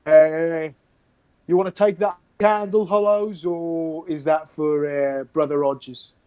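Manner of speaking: lightly voiced guardsman; guardsman calling out. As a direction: hail a fellow guard. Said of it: "one of the guardsmen go".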